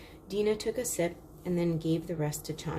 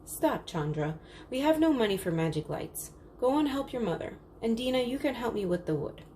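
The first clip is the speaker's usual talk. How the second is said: cross father; 5 semitones higher than usual. Acted. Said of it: "Father looked cross".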